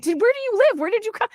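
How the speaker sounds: high, delighted squeal of surprise with a laugh; reliving the thrill of spotting an old friend; excited greeting. Retold or imitated. Meeting her old college roommate at the funeral, thrilled squeal.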